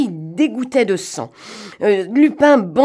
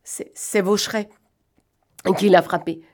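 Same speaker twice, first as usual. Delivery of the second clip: stammering. Acted. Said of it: "Gilbert bredouilla".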